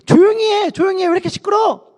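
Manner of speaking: high, irritated crowd hushing someone; scolding. Acted. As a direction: tell them off, pitched high. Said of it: "라고 하면서 바디메오를 구박했어요".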